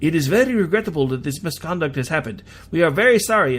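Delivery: light imitation of a Japanese accent; a hint of a Japanese accent, official apology. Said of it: "I should probably do that in a Japanese accent".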